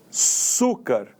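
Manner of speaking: Açúcar split after A, with force on ÇÚ; stress on penultimate syllable. Shown as a demonstration. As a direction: separate A, then lean on ÇÚcar. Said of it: "a penúltima sílaba é a mais forte". (Açúcar pausado, com ênfase no ÇÚ)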